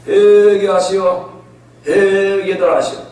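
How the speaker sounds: drawn-out, perfunctory call to repent; half-hearted preaching. Acted. Reluctant prophet trudging through the city, calling out half-heartedly. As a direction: stretch it out like a reluctant crier. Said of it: "그 말로는 회개하러 오지만".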